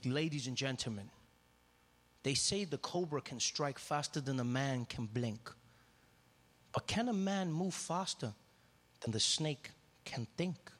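low, slow, measured showman; calm, mysterious riddle to the audience; slow, low, understated snake charmer; cool and calm. Retold or imitated. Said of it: "he was really cool and calm".

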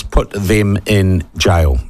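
slow, firm indignant demand; worked up. Real, not acted. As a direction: lay it down slowly, word by word. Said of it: "I'm getting worked up".

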